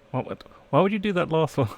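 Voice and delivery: high, loud incredulous question; amused disbelief. Real, not acted. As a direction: jump up in pitch, baffled by what was just done. Startled at co-reader's line.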